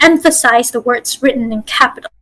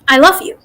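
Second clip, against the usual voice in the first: "love" stands out as the main word; stress on love. Shown as a demonstration. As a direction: put the weight on "love". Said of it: "I emphasize the word "love".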